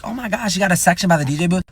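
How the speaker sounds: mock gushing, high and fast; gushing imitation. Imitating people impressed by a DJ-booth section, gushing. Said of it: "what some people would be like".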